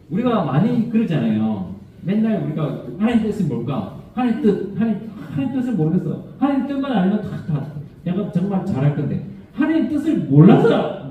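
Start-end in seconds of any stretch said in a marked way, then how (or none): 3.0-11.1 higher, laughing through a mock complaint; laughing imitation of a believer's excuse; laughing mock whine. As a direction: poke fun at the usual excuse, laughing. Mocks people's complaint, laughing.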